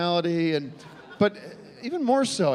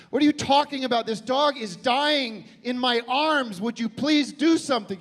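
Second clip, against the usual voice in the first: desperate plea; 8 semitones higher than usual. Retold or imitated. Owner begging the vet clerk to save dog, frantic. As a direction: beg the clerk, voice rising. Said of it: "I said".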